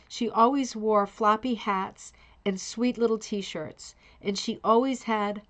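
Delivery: reading through a yawn; words stretched by a yawn. Real, not acted. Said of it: "I'm yawning".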